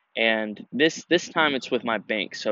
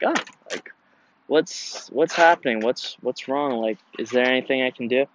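mock worried plea. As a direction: plead like a worried kid who got ghosted. Worried texts to scammer, retold.

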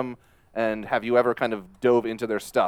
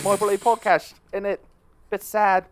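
put-on jokey high British accent; mock posh British accent, pitched up; 8 semitones higher than usual. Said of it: "in British accents".

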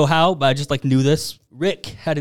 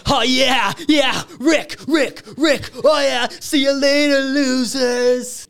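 much higher, loud, shouted glee; gloating Morty; 11 semitones higher, 3 dB louder, slower than usual. Retold or imitated. Morty yells goodbye to the losers as he escapes, high and gleeful. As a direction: crow triumphantly while escaping. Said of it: "then Morty's like".

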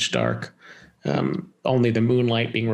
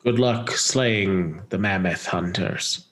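slow, lower lumbering beast voice; mammoth voice; 4 semitones lower, slower than usual. Acted. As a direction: speak slowly like a big gentle mammoth. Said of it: "you had to have a mammoth voice prepared".

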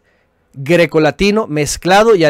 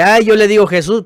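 whiny mock quote; 6 semitones higher, 4 dB louder than usual. Mimicking a whiny objector.

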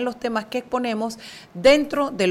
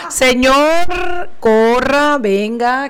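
louder, calling someone over; 5 dB louder, much slower than usual. Real, not acted. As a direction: call out to hurry him. Calling the late guest.

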